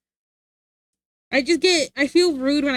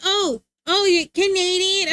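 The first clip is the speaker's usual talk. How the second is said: mocking sneer; 6 semitones higher, 3 dB louder than usual. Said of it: "They're like".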